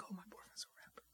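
breathy gushing secret, quick; whispered quote. Retold or imitated. Friend whispering the girlfriend's brag about her rapper boyfriend. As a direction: whisper it, fast and unvoiced. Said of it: "she had to be like".

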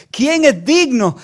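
high, drawn-out proclamation; angel's loud cry. Retold or imitated. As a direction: call it out like a mighty herald. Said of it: "el ángel gritaba y gritaba".

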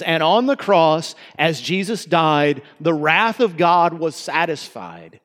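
slow, solemn recital of the original line; original lyric. Shown as a demonstration. Preacher reciting the original hymn words, slow and solemn. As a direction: lean into the wrath of God was satisfied, slowly. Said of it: "singing it this way".

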